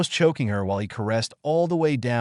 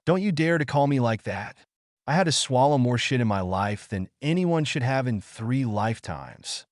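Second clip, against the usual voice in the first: mild fury. Acted. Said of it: "Naruto answered in fury".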